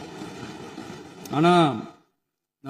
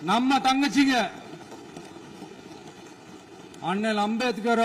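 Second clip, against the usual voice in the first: projected rally oratory with deliberate pauses; emphatic, measured political address; loud speechmaking. Real, not acted. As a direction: pose the challenge out to the crowd, then answer it. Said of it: "நான் ஏன் கொஞ்சம் சவுண்டா பேசுறேன்".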